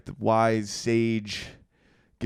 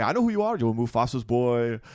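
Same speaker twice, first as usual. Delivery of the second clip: lightly voiced wise old baboon; wise sage; 4 dB louder than usual. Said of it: "He's like".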